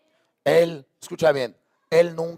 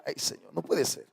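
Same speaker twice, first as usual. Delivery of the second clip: astonished murmur; 2 semitones lower, 11 dB quieter than usual. Retold or imitated. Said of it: "yo me quedo con esto de verdad y digo".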